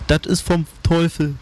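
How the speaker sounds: high, screechy dialect wail; narrated screech, pitched far up; shrieking woman. A narrator's reading. Woman declaring the rotten fruit devilish, shrieking. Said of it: "kreischte sie".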